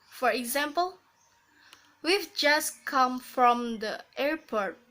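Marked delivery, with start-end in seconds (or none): 2.0-4.8 slow "We've just come from the airport", falling on "airport"; falling intonation. Shown as a demonstration. Teacher repeating the statement example, slowly, falling on "airport". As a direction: take it slowly and drop the pitch on "airport". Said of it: "falling intonation".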